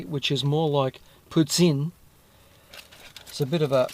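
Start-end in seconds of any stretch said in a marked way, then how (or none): 1.3-1.9 "puts in", said as two syllables with the stress on "in"; Quebec pronunciation of poutine. Shown as a demonstration. Explaining to Australian viewers how Quebec says it, Quebec pronunciation. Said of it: "said it something like the correct way".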